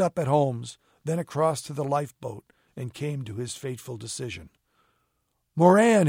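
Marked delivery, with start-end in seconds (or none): 5.5-6.1 high, loud, drawn-out shout; yelled. A narrator's reading. Drowning mate to his accomplice, yelled. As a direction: yell the name across the water. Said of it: "he yelled".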